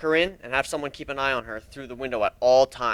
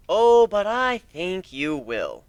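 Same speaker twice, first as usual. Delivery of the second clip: menacing; 5 semitones higher, much slower than usual. Acted. Interrogator menacing captive.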